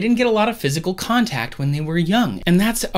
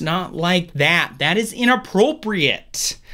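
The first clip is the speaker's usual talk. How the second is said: put-on slow, drawn-out Michigan accent; mock Michigan accent; slower than usual. Host jokes to listeners in a hammed-up Michigan accent. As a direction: play up a Michigan accent for a joke. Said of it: "That was my Michigan accent".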